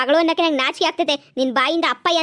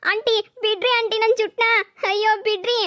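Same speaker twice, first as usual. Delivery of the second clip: pained pleading; 4 semitones higher than usual. Acted. Hair pulled by aunt.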